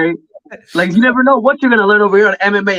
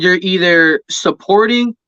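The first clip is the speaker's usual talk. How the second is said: slow, deliberate saying, each word spaced; slow quoted motto; slower than usual. Retold or imitated. Quoting a fighter's motto to the host, slowly. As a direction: spell out the motto slowly like a mantra. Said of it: "he said".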